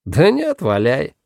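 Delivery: high start dropping to normal; casual go-ahead. A narrator's reading. Guerrera lets Paxton leave the cave, offhand and high-pitched. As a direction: wave him on lightly.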